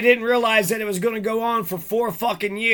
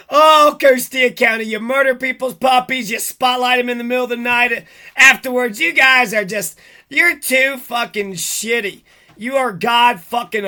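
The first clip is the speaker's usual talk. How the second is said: real anger boiling over into a louder rant; angry outburst; 4 dB louder than usual. Real, not acted. Ranting at Costilla County over the puppies, furious and loud. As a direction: vent at them, voice rising hot and loud.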